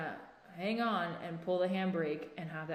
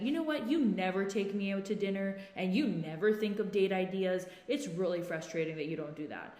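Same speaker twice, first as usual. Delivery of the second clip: acted frustrated criticism, pitched up at the start; critical tone. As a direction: lash out mid-chat with a mildly acted complaint. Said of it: "we've got tone of voice, we've got definite criticism".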